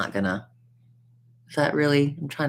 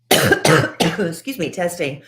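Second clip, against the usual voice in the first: mic check; 5 semitones higher, 7 dB louder, slower than usual. Pretend. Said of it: "Testing, one, two".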